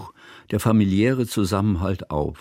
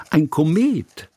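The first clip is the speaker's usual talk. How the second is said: higher, delighted exclamation; excited call; 7 semitones higher, slower than usual. A narrator's reading. Girl spotting the kite, calling out excitedly. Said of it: "rief Hanaka".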